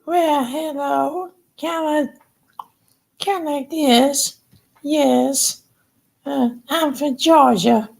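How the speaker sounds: very high, slow Southern dummy voice; high falsetto with a Southern accent; Ashley's Southern voice. Shown as a demonstration. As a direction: pitch it way up, slow Georgia belle puppet. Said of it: "Her voice sounds like".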